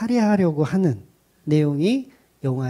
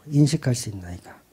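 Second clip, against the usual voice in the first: quiet echo; 5 semitones lower, 5 dB quieter than usual. Shown as a demonstration. Pastor echoing his point to the congregation, quiet. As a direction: repeat 인식할 수 있는 나이가 softly, as an aside.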